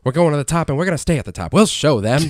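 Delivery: lightly voiced old-time announcer; hint of a twenties pep talk; radio announcer voice. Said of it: "Like the radio announcer voice".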